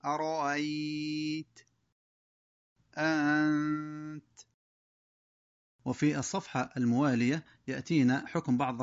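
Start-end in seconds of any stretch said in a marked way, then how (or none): 0.1-1.6 أرأيت with the second hamza softened, quieter; tashil. Shown as a demonstration. Teacher shows tashil on the hamza. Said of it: "بالتسهيل فقط". 3.0-4.2 أنت slow with eased hamza; tashil. Shown as a demonstration. Teacher demonstrates tashil slowly. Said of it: "بالتسهيل فقط".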